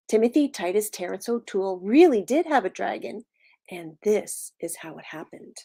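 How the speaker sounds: animated storytelling with punched key words; story read-aloud. A narrator's reading. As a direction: read to preschoolers, leaning on the describing words. Reads picture book to children.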